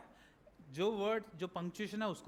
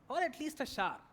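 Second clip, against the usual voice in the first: higher, talk-like story line; conversational reading; 4 semitones higher, much slower than usual. Shown as a demonstration. Teacher showing that reading is like talking, conversational and expressive. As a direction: read it as if talking to someone. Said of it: "बात कर रहा हूं मैं".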